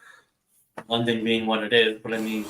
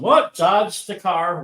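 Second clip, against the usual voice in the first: sudden high loud "What?", then slow "Dodged the car"; mock startled; 6 semitones higher, 6 dB louder, much slower than usual. Acting out a chaotic walk through London, mock startled yelp.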